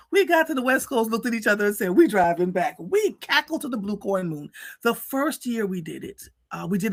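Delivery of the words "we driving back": said loud and proud; gleeful, loud retelling of the decision; loud declaration. Retold or imitated. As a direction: announce it with a burst of joy. Friends' joyful decision.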